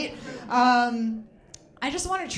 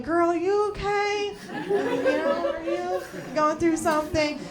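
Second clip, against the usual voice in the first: concerned friend; 7 semitones higher than usual. Retold or imitated. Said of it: "you're like".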